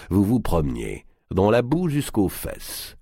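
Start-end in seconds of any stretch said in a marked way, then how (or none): 1.3-3.0 teasing giant voice. Acted.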